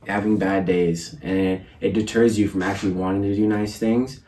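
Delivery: talking with swollen cheeks after wisdom teeth; slightly thick speech from puffy cheeks. Real, not acted. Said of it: "Sorry if my cheeks are all chubby, if I'm talking weird".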